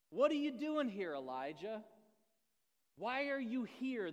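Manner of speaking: loud, high, stern question from above; God thundering the question; booming voice of God. Acted. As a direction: call him out, demanding.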